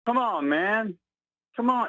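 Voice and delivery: drawn-out, exasperated catchphrase in a mimicked voice; Dustin. Caller mocks another caller to the radio host, imitating him. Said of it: "this is my imitation of him".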